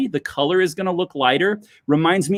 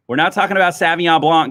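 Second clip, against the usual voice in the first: quick plain repeat; 2 semitones higher, faster than usual. Shown as a demonstration. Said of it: "let's make sure I can do this right".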